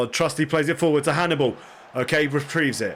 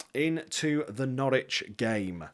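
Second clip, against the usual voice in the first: "Into the Norwich game" drawn out slowly and softer, like a match announcer; slow announcer intro; 7 dB quieter, slower than usual. Shown as a demonstration. Streamer introduces the big match to viewers, slow announcer read.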